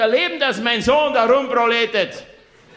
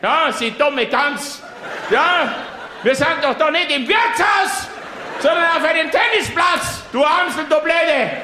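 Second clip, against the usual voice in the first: mock furious insults; 5 semitones higher than usual. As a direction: hurl dialect insults at her, hammed-up rage. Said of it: "Sag ich". (gespielte Wut, bairische Schimpftirade)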